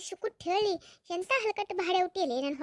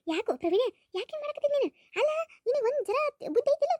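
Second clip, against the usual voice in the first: higher, crying reproach; tearful scolding; 7 semitones higher than usual. Acted. Mother scolding son Praveen over his wife, crying. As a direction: scold him through tears, voice pitched up.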